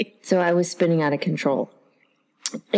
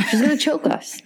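breathless high whisper; 10 semitones higher than usual. Real, not acted. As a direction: whisper it like a secret. Joking whisper about being choked.

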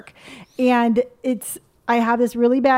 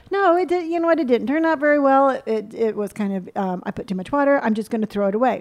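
chipper self. Retold or imitated. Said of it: "me and my little chipper self".

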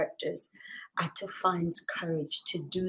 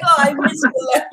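longing exclamation; 7 semitones higher, 11 dB louder, faster than usual. Retold or imitated. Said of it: "I was like".

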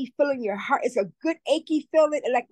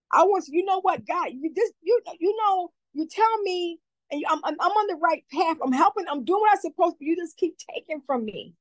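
real emotional plea, raised pitch; tearful pleading; 5 semitones higher than usual. Real, not acted. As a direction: voice pitched up and strained, pleading with God. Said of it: "I get very emotional when I talk about this".

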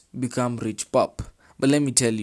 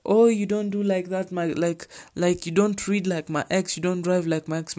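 mocking whiny partner; 7 semitones higher than usual. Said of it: "they'll be like".

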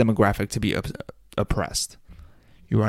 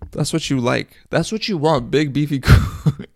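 teasing put-on voice; 4 semitones higher than usual.

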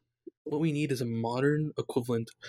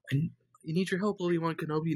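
hologram plea; 5 semitones higher than usual. Retold or imitated. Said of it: "originally it's like".

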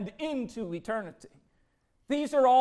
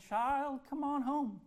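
Father's tender call; 2 semitones higher than usual. Acted. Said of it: "You'll hear him saying".

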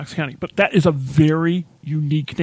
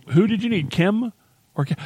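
lightly voiced, higher phone query; retold receptionist; 4 semitones higher than usual. Receptionist to a caller on the office phone, retold query. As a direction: ask which one they want, pitched up. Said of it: "So they just say".

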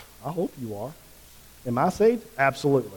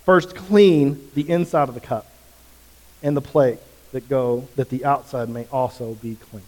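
Jesus rebuking; 7 dB louder than usual. Retold or imitated. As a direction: rebuke them for their hypocrisy. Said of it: "He says".

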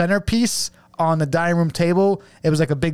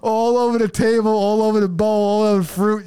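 higher, half-laughing narration; laughing while telling; 5 semitones higher than usual. Real, not acted. Describing the glue puddle to a friend, laughing throughout. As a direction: describe the mess while giggling.

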